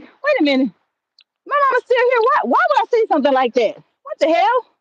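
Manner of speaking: high, baffled retold reaction; incredulous self-questioning. Man asking himself why he said it, incredulous. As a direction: replay your disbelief, pitch jumping up.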